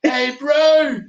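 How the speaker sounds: high-pitched shout with a Scottish brogue; Scottish brogue yell. Retold or imitated. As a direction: call out like a Scottish brother in the crowd. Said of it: "this Scottish brogue yell out".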